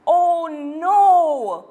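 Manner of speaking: put-on girl scared over the monster's mouth; frightened shout. A narrator's reading. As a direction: cry out in fright. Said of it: "shouted Louise".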